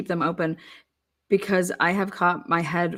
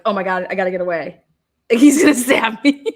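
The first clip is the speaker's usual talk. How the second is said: mock panic; 7 dB louder than usual. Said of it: "I was like".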